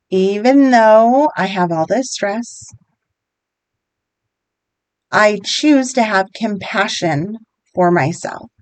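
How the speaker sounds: slow, measured repeat-after-me delivery; guided affirmation. Shown as a demonstration. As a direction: lead them through it slowly, phrase by phrase. Leads repeat-after-me tapping statements.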